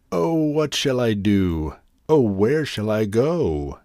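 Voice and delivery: slow, mild lament; a hint of despair, drawn out. Cold hungry grasshopper wails, mildly sad and slow. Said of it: "cried the grasshopper".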